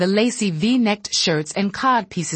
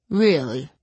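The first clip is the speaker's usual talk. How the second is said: flat disbelief; 3 semitones lower than usual. Acted. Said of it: "in a flat, disbelieving voice".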